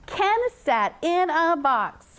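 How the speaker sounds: slow, connected, flowing sentence; smooth reading. Shown as a demonstration. Teacher models the sentence for a halting young reader, smooth. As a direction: read it smoothly and unhurried. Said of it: "Now make it smoother".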